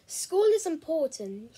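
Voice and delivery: stern father. Acted.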